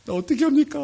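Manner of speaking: high, wailing retold plea; mock crying. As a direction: act out a tearful cry for help. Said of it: "막 울었어요".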